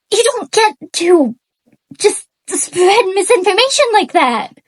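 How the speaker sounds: incredulous, indignant scolding; real anger. Real, not acted. Scolding an author for skipping research, mad and indignant. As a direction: challenge them in disbelief, pitch climbing as you go. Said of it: "fucking mad".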